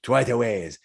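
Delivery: measured character voice of a hearty traveler; jolly adventurer turning thoughtful, in role; earnest Minsk. Acted. Balding man tells the others where he is headed, earnest.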